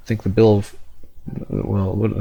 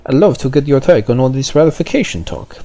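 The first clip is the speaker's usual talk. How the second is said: put-on mistaken French accent on I'd love to get your take; slipped into a French accent on the wrong line; 4 semitones higher, 3 dB louder than usual. Player asking French official, wrongly in French accent. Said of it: "oh, wait, no, no, no".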